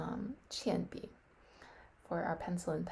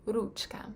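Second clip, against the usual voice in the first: Ruchka whispered with the RU stressed; 3 semitones higher than usual. Shown as a demonstration. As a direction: hit the first syllable of Ruchka, RU-chka. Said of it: "Emphasis on the u".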